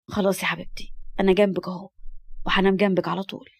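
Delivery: put-on calm a frightened child gently; soothing reassurance. Man comforting a scared little girl, soothing.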